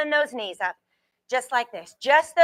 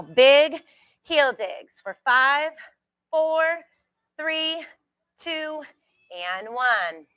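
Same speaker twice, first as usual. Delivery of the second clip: slow, punchy countdown; coach countdown; 2 semitones higher, much slower than usual. Real, not acted. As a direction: draw out the count.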